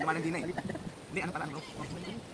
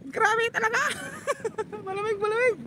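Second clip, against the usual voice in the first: laughing in cold water; 14 semitones higher than usual. Real, not acted.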